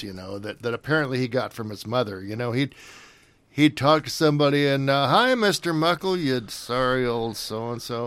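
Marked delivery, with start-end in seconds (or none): 5.1-8.1 W C Fields. Retold or imitated. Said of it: "he would just do these asides".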